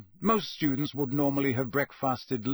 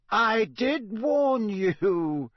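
put-on slow amused old wizard; deep amused voice; 8 semitones higher, 5 dB louder, much slower than usual. A narrator's reading. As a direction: say it slowly, gently amused. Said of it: "said a deep, amused voice".

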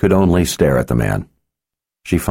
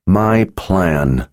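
gritted teeth. Acted. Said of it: "she said through gritted teeth".

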